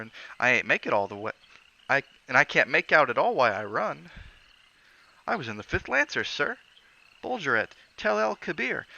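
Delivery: Cockney lad ashamed of running; embarrassed Cockney bellboy. Acted. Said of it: "flushed with embarrassment".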